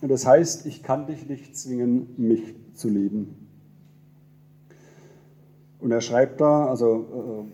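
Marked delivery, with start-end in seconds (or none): 0.6-3.4 slow solemn title reading; poem title read slowly. Acted. Pastor reading a poem title to the church, slow and solemn. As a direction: let the title land slowly.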